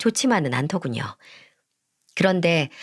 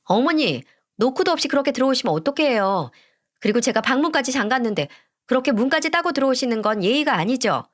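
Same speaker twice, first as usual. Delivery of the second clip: higher, mildly raised protest; fiancée snapping at the mother for barging in, mildly raised; 5 semitones higher than usual. Acted. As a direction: scold the mother with a sharpened pitch. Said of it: "이내 절 보고 소리 높여 말하더군요".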